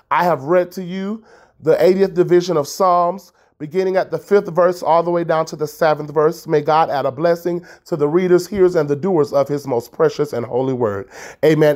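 formal churchly recitation; church scripture-reader formula. Shown as a demonstration. Podcaster imitating her childhood church's scripture readers, formal recitation. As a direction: close the reading like a church reader. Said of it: "that's how we say it in church".

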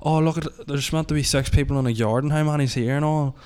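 light retold shout, slightly lifted; Stephen Nolan. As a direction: imitate a reporter calling out a head count. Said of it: "and he's shouting".

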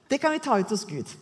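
usual speaking voice

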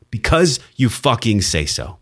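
deliberate, punchy stress through "you fucking say so"; emphatic. Real, not acted. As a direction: lean hard on "Because you fucking say so", drawn out. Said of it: "important to put emphasis on words".

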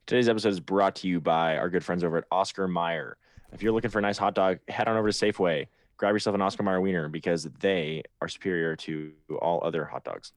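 smooth sponsor read, rolling along; advertising voice. Pretend. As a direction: sell it like a radio spot. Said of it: "advertising voice I've ever heard".

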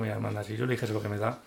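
amused retort. Retold or imitated.

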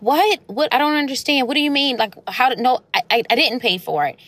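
high, bewildered retold "what? what?"; stunned disbelief. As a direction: imitate the mom who can't believe it's paid. Mom shocked bill was paid.

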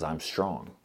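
low, soft, assured answer; lightly voiced God, calming a doubt; gently certain, dropped in pitch; quiet reassurance.

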